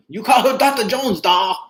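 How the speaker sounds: imitating Short Round. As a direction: quote the kid like he said it in the film. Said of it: "that's how he said it".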